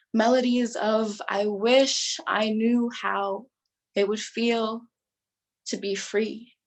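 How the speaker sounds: measured, charged recital of a prose poem; dramatic poetry performance. Acted. Poetry competition performer recites to judges, dramatic and measured. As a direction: perform it for judges, every pause weighted.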